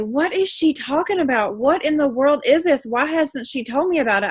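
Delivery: mock amazed follower wondering aloud; intrigued reaction. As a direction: sound curious about the mystery product. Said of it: "something that makes people say".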